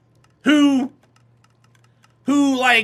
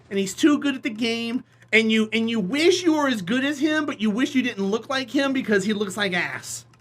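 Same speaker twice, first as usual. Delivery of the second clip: usual speaking voice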